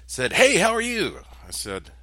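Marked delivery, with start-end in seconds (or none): 0.3-1.2 much higher, louder, bubbly hello; hammed-up bright hello from a stranger; cheery greeting. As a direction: greet like an over-friendly stranger. Bright-eyed man greets him.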